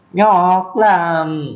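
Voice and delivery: "Nhọc lắm" lên cao, nhọc vừa nặng vừa sắc; nhấn "nhọc" cao và gắt; Mường nhọc. Shown as a demonstration. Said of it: "vừa có dấu nặng, vừa có dấu sắc". ("nhọc" dấu nặng lẫn dấu sắc)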